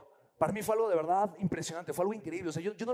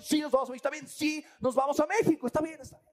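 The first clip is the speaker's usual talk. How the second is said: with conviction; 7 semitones higher than usual. Shown as a demonstration. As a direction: chant it like you believe it. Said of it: "siéntelo con convicción".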